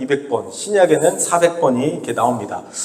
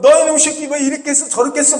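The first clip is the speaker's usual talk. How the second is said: imitating a scolding, pitched much higher; hammed-up parent telling a child off; mock parental reprimand; 10 semitones higher, faster than usual. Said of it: "막 이렇게 혼내고 꾸짖고".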